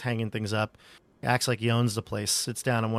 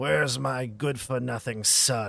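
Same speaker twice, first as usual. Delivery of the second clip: put-on gruff old man voice, calling out; 2 semitones higher than usual. Storyteller describing a scene, voicing the old man calling out in a gruff Mardukov voice. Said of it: "you'll hear a a gruff voice call out".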